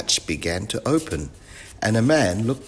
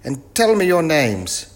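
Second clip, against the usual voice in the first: puzzled professor; 9 semitones higher, 7 dB louder than usual. Acted. Professor mistakes the children for crew, loud and puzzled. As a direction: ask it loudly, drawing it out.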